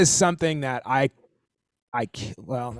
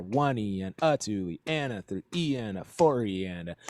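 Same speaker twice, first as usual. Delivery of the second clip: measured "one E and a" count, leaning on every third syllable; accented count; 3 semitones lower, 4 dB quieter than usual. Shown as a demonstration. Teacher repeating where the accents sit, accented counting. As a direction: count evenly in time, accents starting on "One". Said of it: "where those accents are".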